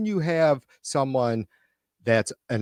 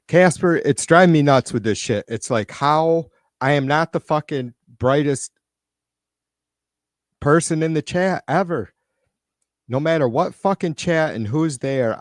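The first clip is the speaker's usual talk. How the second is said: irritated rant; 3 semitones higher, 3 dB louder than usual. Real, not acted. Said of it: "can you tell I'm irritated?".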